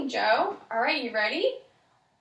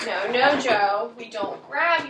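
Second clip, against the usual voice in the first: loud sharp no-no; firm no; 7 dB louder, slower than usual. Acted. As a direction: stop him firmly. Parent stopping child grabbing.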